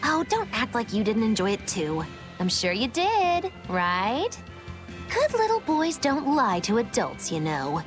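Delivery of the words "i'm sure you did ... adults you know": coaxing, condescending tease; playful teasing. Acted. Adult coaxing a confession from a boy, playful teasing. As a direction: tease as if talking down to a child. Teasing someone to admit enjoyment.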